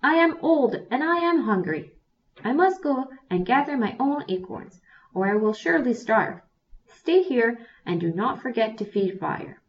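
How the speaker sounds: put-on Old Woman Bear tells Young Bear to stay, high and loud. A narrator's reading. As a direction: insist she is old and hungry.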